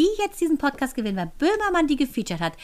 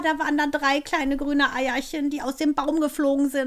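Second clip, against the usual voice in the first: ordinary delivery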